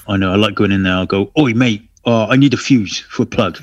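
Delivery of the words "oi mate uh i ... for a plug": a light hint of Cockney, a bloke at the hardware counter; lightly put-on Cockney, casual and matey; mock Cockney. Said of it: "Do you become a little bit Cockney".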